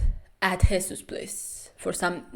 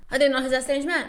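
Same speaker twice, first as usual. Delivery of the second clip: incredulous; 5 semitones higher, much faster than usual. Real, not acted.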